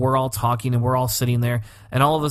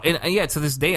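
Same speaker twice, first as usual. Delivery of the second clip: ordinary delivery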